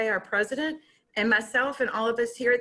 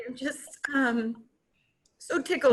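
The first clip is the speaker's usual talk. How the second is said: choked whisper; 2 semitones higher than usual. Real, not acted. Presenter choking up during announcement, choked whisper. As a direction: barely get the words out through tears. Crying at podium, voice gone.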